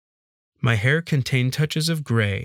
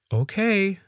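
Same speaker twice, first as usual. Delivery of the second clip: high, tentative maid voice; hesitant; 10 semitones higher than usual. A narrator's reading. Maid agreeing to answer strange questions, hesitant. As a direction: agree uncertainly, pitched up. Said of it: "she said hesitantly".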